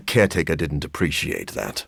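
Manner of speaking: a light chuckle running through the words; amused, laughing it off. Acted. The vampire laughs while telling Hunter about Caretaker.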